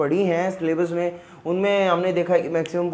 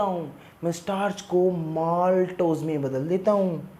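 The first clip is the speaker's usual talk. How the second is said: lightly acted character with stretched words; enzyme introducing itself. Pancreatic alpha amylase answering the teacher, lightly voiced introduction. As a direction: present yourself proudly, lingering on the names.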